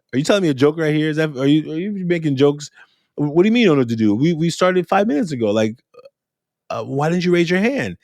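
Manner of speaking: high, teasing disbelief; teacher teasing a stuck student, high and sarcastic. Retold or imitated. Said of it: "Ashanti is sometimes sarcastic".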